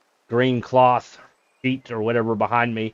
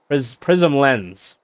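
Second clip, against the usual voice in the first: "Prism Lens" said slowly and deliberately, every syllable clear; slow careful correction; 3 semitones higher, 4 dB louder, much slower than usual. Real, not acted. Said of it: "I had it backwards".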